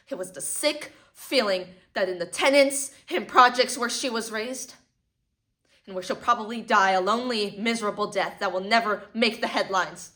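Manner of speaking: loud, anguished despair; bitter lament. Acted. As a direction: cry out against her fate.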